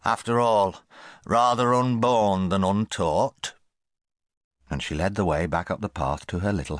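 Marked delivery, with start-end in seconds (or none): 0.0-3.5 put-on old aunt's voice. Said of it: "said Great-aunt Ada".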